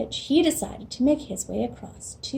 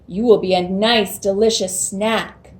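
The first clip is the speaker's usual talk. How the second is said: louder, gloating troll; troll threat; 2 semitones lower, 4 dB louder than usual. Acted.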